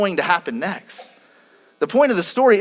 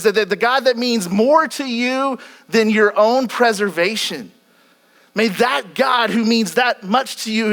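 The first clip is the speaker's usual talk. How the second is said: emphatic; 3 semitones higher than usual. Real, not acted. Preacher unpacking the king's blessing for his listeners, emphatic. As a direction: drive it home with mounting insistence.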